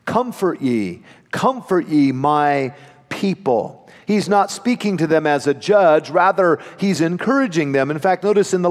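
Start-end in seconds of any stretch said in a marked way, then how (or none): 0.0-3.9 tender, hushed comfort ye my people. Shown as a demonstration. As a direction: let each comfort ye land gently. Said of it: "God uses the word here, comfort".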